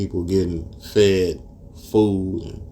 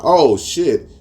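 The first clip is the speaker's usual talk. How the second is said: shocked; 8 semitones higher, 7 dB louder than usual. Retold or imitated. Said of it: "I'm looking like".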